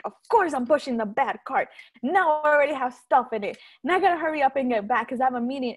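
mildly exasperated, quick venting about a small mishap; exasperated retelling. Retold or imitated. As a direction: retell your own grumbling, pushing up the first words. Exasperated in retold cart mishap.

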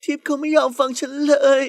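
high, upset complaint; plaintive. A narrator's reading. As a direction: lament it like someone close to tears. Tearful rival pleading for help. (ตัดพ้อเสียงเศร้า)

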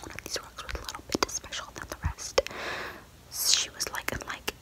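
hushed bedtime story whisper; whispered story reading. Acted.

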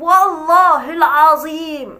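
slow, drawn-out mock oath; hammed-up imitation of his swearing. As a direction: drag out والله العظيم like a solemn swear. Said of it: "بتحلف بالله".

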